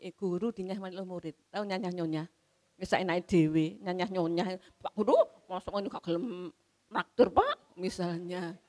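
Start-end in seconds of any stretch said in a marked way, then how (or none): 4.8-7.8 cheeky teasing. Retold or imitated. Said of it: "Itu kan nyanyah-nyonyah namanya".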